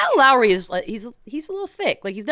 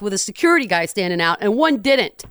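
loud, higher-pitched indignant objection; mock outrage; 4 semitones higher, 8 dB louder than usual. Co-host defending one coach, loud mock outrage. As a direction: protest loudly, playing up the offense.

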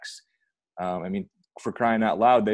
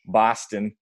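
bad Boston accent; 3 dB louder than usual. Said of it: "That's a terrible Boston accent".

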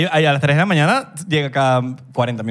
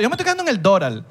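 mock Miami Venezuelan; 4 semitones higher than usual. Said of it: "Pero te dicen el Doral".

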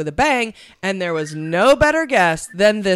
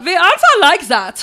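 higher, louder whiny defensive voice; mock whiny protest; 11 semitones higher, 7 dB louder than usual. Hosts mimic a German listener, mock defensive whine. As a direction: whine it like an offended German fan.

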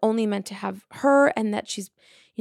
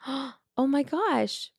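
awed gasp; 5 semitones higher, 4 dB quieter, much slower than usual. Retold or imitated. First butterfly sighting, gasp.

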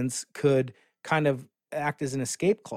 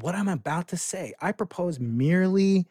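solemn reading of Galileo. Retold or imitated. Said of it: "He said".

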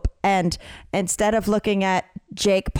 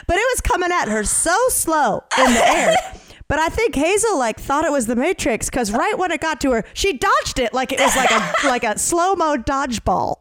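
higher, giggling retelling of mom; laughing through the quote; 5 semitones higher than usual. Retold or imitated. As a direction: tell it while breaking into laughter. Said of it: "And my mom goes".

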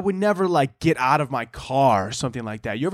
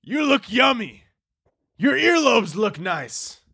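creepy cannibal; 8 semitones higher, slower than usual. Retold or imitated. Repeating the cannibal line.

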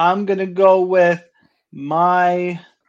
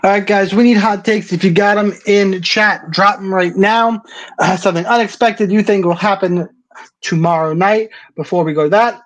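hyping up; 5 dB louder than usual. Real, not acted. Host hyping chat, ad read.

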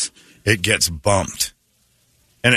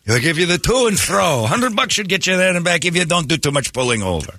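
mock ad announcer; 8 semitones higher than usual. Parodying the rival's ad.

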